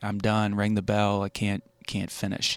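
ordinary talk

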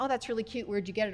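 ordinary talk

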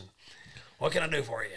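rough, gruff coach voice. Speaker retells his coach inviting him into the office, imitating coach's gruff voice. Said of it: "He had a real gruff voice".

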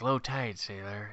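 very quiet, cool, barely audible under-the-breath mutter. Imitating Slater delivering a one-liner under his breath: Slater saying it really cool. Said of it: "I'm gonna say it really cool".

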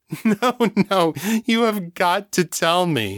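high, slow words shaking with hard laughter. Narrator reads Jasmine reacting to John, laughing so hard her voice shakes. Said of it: "laughing so hard that her voice shook".

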